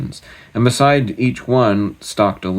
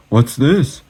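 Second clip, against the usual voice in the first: surprised gasp; 5 semitones higher, 4 dB louder than usual. Acted. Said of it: "he gasped".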